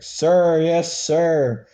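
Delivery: loud, high recruit's yell; screamed reply. A narrator's reading. Recruit screaming his answer to the drill instructor, high shout. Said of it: "straightened up and screamed".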